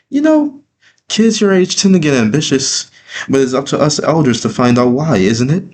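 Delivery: put-on high, gasping old grandmother; sweet elderly grandmother voice, high; grandma voice. A narrator's reading. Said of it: "gasping at me while clasping her hands together".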